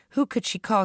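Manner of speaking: mildly worried wondering; fretting. A narrator's reading. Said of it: "she fretted".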